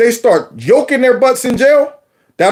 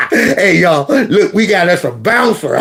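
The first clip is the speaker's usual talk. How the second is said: laughing taunt. Retold or imitated. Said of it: "he had this laugh".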